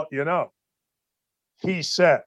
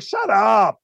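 shut up shout. Real, not acted. Host yells back at complainer.

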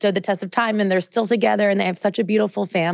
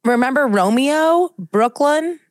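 excited; 7 semitones higher, 4 dB louder, slower than usual. Real, not acted. Excitedly recalling the Beckham kids' names.

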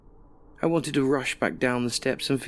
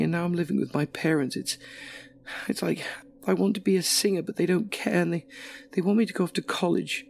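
higher-voiced young woman venting her troubles; lightly voiced Alison, higher, complaining; upset young woman; 5 semitones higher than usual. Alison pouring her heart out to a stranger, higher upset voice.

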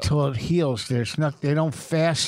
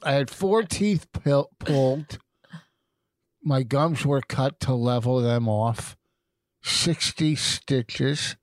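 talking through a swollen mouth; toothache. Real, not acted. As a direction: sore mouth with loose dentures. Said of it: "His mouth is swollen".

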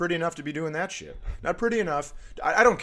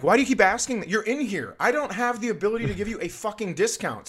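high-pitched exasperated rant; worked-up, incredulous mock outburst; losing his mind; 9 semitones higher, faster than usual. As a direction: reenact blowing up at a pestering customer. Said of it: "So now I just lose my mind".

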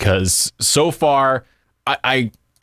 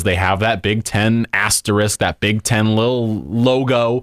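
dry sarcasm about the logo; understated mocking reverence; sarcastic; slower than usual. Real, not acted. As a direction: honour it with tongue in cheek, stretching out the end. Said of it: "the sarcasm in his voice".

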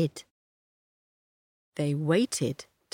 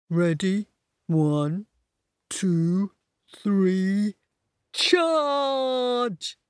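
battle cry; much slower than usual. A narrator's reading. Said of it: "said Donkey".

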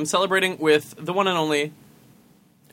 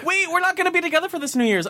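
surprised gasp; 10 semitones higher, faster than usual. Real, not acted. Sudden realization with gasp.

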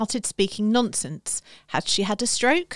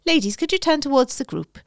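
put-on Welsh accent; 6 semitones higher than usual. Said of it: "you do a brilliant Welsh accent".

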